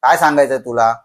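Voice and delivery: loud, raving shouts at the ghost; crazed yelling. Retold or imitated. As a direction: yell defiantly like a man losing his mind. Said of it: "तो जोरजोराने ओरडायला लागला".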